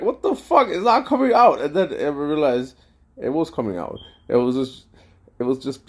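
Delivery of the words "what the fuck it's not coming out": high, loud frustrated yell; retold outburst. At the gas station pump, yelling when the air won't come. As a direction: blurt it out, fed up with the pump.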